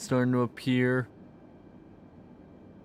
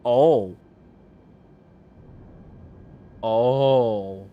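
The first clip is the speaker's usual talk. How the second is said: startled gasp; 9 dB louder than usual. Real, not acted. Turbulence jolt in flight.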